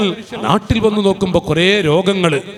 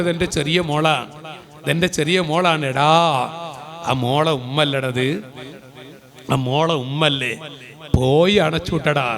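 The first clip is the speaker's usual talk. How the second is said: retold stern rebuke; 6 semitones lower, 5 dB quieter than usual. Retold exchange about the daughter.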